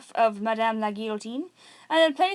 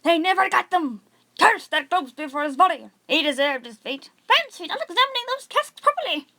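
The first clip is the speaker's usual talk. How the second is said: loud, high, jeering outcry; crowd shouting; 5 semitones higher, 5 dB louder than usual. A narrator's reading. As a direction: shout it out as the mob. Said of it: "shouts the crowd".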